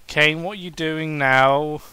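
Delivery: ask, not trusting him; curious question. Acted. Daniel asking Kane what he is up to, curious and wary. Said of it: "he asked curiously".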